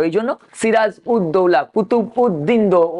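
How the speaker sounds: সিরাজ উদ দৌলা said broken into separate parts; split pronunciation. Shown as a demonstration. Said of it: "ওদের এইরকম উচ্চারণ".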